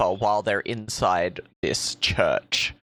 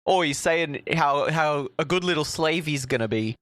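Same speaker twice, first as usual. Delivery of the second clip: goblin voices; 4 semitones higher than usual. Retold or imitated. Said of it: "grots are like".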